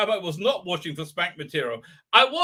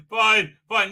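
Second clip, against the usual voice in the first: laughing; 5 dB louder than usual. Real, not acted. Laughing, conceding to chat.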